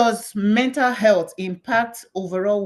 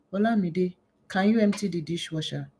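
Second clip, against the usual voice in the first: imitating herself being unusually restrained; soft, toned-down call to a child; carefully quiet request; 6 dB quieter than usual. Mother asks daughter after being told off, carefully quiet. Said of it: "Why is she speaking like that?".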